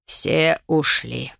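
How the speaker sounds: put-on low, very slow sigh of an old man. A narrator's reading. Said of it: "вздохнул старик". (медленный вздох старика)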